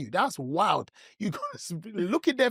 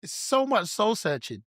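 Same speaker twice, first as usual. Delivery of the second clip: mock dramatic; 7 semitones higher, slower than usual. Mock soul-searching drama.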